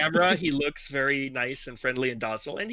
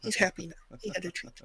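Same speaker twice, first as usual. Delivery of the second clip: higher, cooing talk to a pet; talking to a dog; 4 semitones higher, 3 dB quieter than usual. Real, not acted. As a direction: coo about the puppy's treat. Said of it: "his talk to dog voice".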